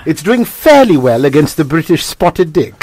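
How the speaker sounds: put-on intelligent-sounding British accent. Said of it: "he sounds intelligent with that accent".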